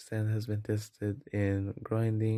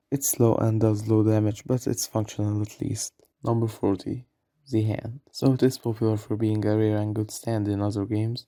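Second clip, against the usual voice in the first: ranking countdown read. Acted. Narrator counting down the game's stand tier list, brisk voiceover read. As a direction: announce each entry like a countdown host.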